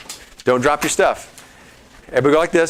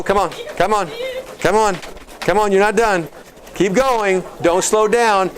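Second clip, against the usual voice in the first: raised, high-pitched workout encouragement; energetic trainer calls; coach urging on; 7 semitones higher than usual. Real, not acted. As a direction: push the group to keep going. Coaching audience through thirty-second exercise.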